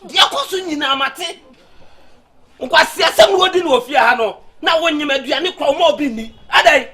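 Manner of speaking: angry scolding. Acted. Father scolding daughter Ama.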